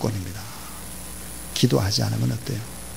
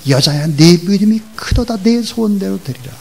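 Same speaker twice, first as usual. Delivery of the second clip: higher, loud, continuous rising exclamation; rousing praise; 7 semitones higher, 7 dB louder than usual. Acted. Jesus praises the woman's great faith, rousing exclamation. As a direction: build the praise upward with force.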